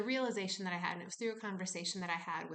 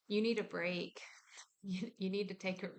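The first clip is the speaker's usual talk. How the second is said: body's whisper. Pretend. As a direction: whisper a plea to stop. Body begging for rest.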